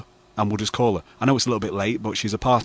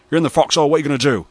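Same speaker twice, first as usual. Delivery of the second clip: lightly imitated catchphrase, pitched up; Kenneth Butterworth; 4 semitones higher, 3 dB louder, faster than usual. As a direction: do his motto, lifted and punchier. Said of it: "He's more like".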